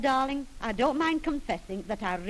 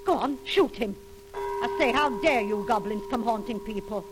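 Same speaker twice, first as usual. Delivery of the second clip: loud scolding; 2 semitones higher, 6 dB louder than usual. Acted. Wife confronting the goblins.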